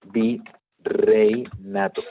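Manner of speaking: virreinato drawn out very slowly, syllable by syllable; teacher stretching out virreinato; slow careful spelling-out. Shown as a demonstration. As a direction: dictate virreinato slowly for the class. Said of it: "el término correcto es".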